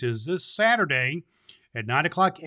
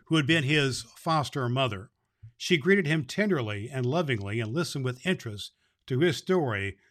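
story narration. A narrator's reading.

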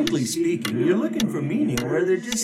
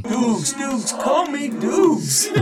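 higher and louder, slow and emphatic; insistent nickname call; 8 semitones higher, 4 dB louder, much slower than usual. Acted. Old sportswriter insisting Orville call him Dukes, emphatic. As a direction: demand the nickname with gusto.

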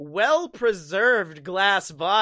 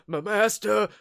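put-on childlike voice; 3 semitones higher, 5 dB louder, slower than usual. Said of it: "he sounds like a child".

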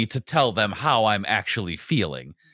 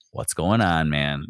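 close friend's concern; 6 semitones lower, slower than usual. Retold or imitated. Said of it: "the tone of their voice".

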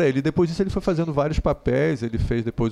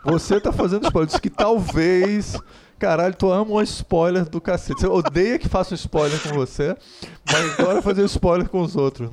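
higher-pitched teasing indignation; mock-outraged comeback to a friend; playful accusation; 5 semitones higher, 3 dB louder than usual. Real, not acted. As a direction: turn the blame back, teasingly. Mock quarrel over spoilers.

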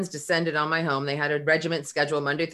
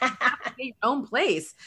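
retold anger; 7 semitones higher than usual. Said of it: "finally, I got pissed".

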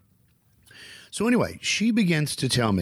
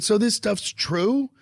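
amazed; 10 semitones higher, slower than usual. Retold or imitated. Amazed question in story.

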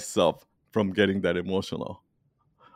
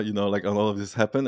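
usual speaking voice

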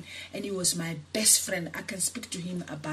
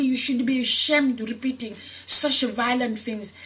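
furious retold outburst; 3 semitones higher, 5 dB louder than usual. To her mother who threatened to cut again, furious shout. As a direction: go ballistic at your mother, voice way up. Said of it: "And I went ballistic".

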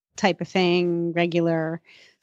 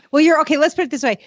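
ordinary talk, nothing marked

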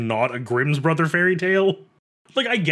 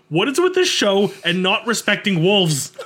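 annoyed rant; 4 semitones higher, 3 dB louder than usual. Real, not acted. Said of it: "I love how angry this makes you".

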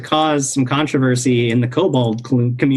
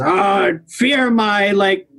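boastful kobold voice; 5 semitones higher, slower than usual. Acted. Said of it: "and says".

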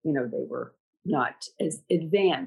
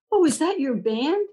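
puzzled donor; 10 semitones higher, 3 dB louder than usual. Retold or imitated. Donor puzzled by passing drummers.

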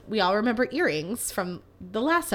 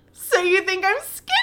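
coy flirty question; 8 semitones higher than usual. Retold or imitated. Her flattered reply to the gym compliment.

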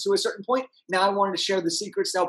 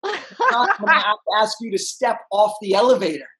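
laughing; 3 dB louder than usual. Retold or imitated. Retelling attendant's rude request.

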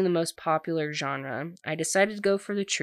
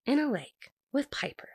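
1 exasperated Monica; 4 semitones higher than usual. Retold or imitated. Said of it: "And Monica's like".

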